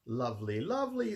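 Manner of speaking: rising to a high, loud delighted second lovely; gleeful Cruella clapping with delight; lovely crescendo from even to high and loud. A narrator's reading. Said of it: "clapping her hands with delight".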